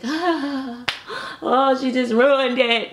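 a hammed-up little tantrum; mock tantrum. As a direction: sulk it out like a spoiled kid. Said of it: "throwing a tantrum or whatever".

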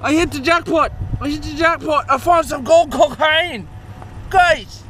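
hammed-up Australian announcer of a lucky find; Australian accent. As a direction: crow about a jackpot in mock Australian. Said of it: "still fucking talking in a fucking Australian accent".

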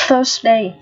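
"Thursday" opened with a voiceless TH; tongue between teeth. Shown as a demonstration. Teacher demonstrates TH for learners, carefully modelled. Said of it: "lưỡi giữa răng này".

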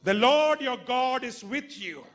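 high, loud proclamation; proclaiming the verse. Shown as a demonstration. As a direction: announce the verse to the church.

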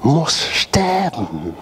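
slow, breathy whisper of the phrase. Real, not acted. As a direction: drop to an intense whisper. Preacher repeats key phrase. (langsam geflüstert)

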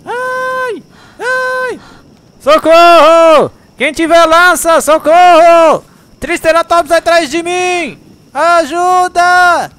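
panicked shouting for help, high and loud; being chased. Real, not acted. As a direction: yell for help while fleeing a dinosaur. Triceratops chasing him, screams help.

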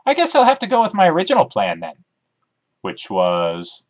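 chirpy dog character, keen to explain; eager talking dog. Acted. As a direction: bounce through it like an excited dog. Dog Emmy voiced in story.

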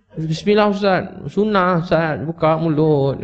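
coaxing friend. Retold or imitated. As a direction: sweetly press him to open up. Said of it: "dia kata".

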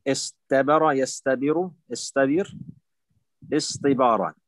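استبر recited through its forms with a plain t; original form with ta. Shown as a demonstration. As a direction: keep a light t after the s in استبر and يستبر. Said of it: "هذا هو الأصل".

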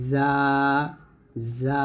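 "যা" with a thin, buzzing whistled Z; whistling Z sound. Shown as a demonstration. Teacher showing students the safir sound, whistling Z. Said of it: "যাকে সফিরে বলা হয়".

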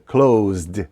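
"closed" drawn out slowly as "klohzd"; "closed" as one syllable ending in voiced ZD; short voiced D in CLOSED. Shown as a demonstration. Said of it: "D вимовляється як коротка D".

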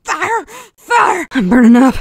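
high, yelping alarm in a Texan voice; panicked on fire. Acted. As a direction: yell out as the flames catch. Set on fire in battle.

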